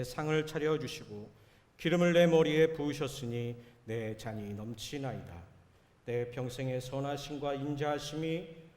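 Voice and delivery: measured, reverent reading of the psalm; solemn scripture reading. Shown as a demonstration. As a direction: read it like scripture before the congregation, steady and formal. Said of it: "시편 이십삼 편".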